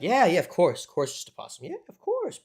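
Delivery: mock agreement, jumping high at the end; sarcastically agree, yeah right; sarcastic. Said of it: "that's what a possum sounds like, apparently".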